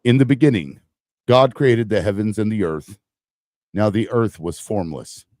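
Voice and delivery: God voice. Shown as a demonstration. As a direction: boom it out like God from the sky. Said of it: "so I can do my God voice".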